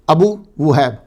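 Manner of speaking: ابو وہیب said as a-bu wu-haib, clear Arabic vowels; Abu Wuhaib. Shown as a demonstration. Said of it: "ابو وہیب کتابوں میں لکھا ہوا ہے".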